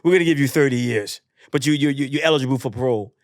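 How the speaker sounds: firm, lightly voiced judge; judge passing sentence. Judge sentences the runner, firm official delivery. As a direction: pronounce it like a formal ruling. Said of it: "the judge says".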